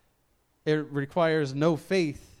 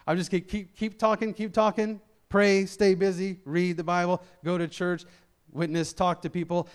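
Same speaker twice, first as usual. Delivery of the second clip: higher-pitched run-on list; nonstop chatter; 3 semitones higher than usual. Acted. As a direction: rattle it off as if afraid to leave a gap. Acting out avoiding listening by busyness.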